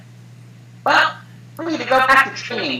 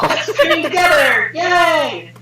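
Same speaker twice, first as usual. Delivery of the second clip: excited cheer; 4 semitones higher, 3 dB louder, slower than usual. Acted. Cheering character.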